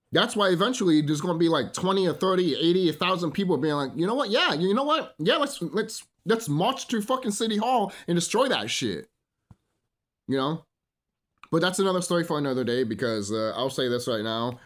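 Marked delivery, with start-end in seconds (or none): 4.0-9.1 higher-pitched mock rallying cry; imitated rallying crowd. A thousand people deciding to march, imitated rallying excitement. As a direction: act out people working each other up to march.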